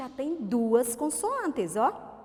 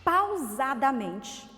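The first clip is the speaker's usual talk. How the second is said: "pausadamente" drawn out, slightly louder; slow and measured; 5 dB louder, much slower than usual. Shown as a demonstration. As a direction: stretch out "pausadamente" deliberately. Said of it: "nós vamos falar agora pausadamente".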